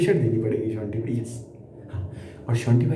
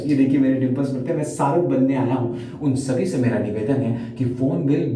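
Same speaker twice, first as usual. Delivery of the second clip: radio news presenter. Acted. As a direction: deliver the notice like an official newsreader. (समाचार वाचक का औपचारिक लहजा)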